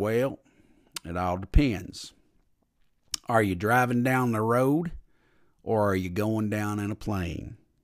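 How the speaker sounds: put-on low-pitched small-town country accent. Quoting a friend's reply to a question about praying, in a little country accent. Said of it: "little country, little accent".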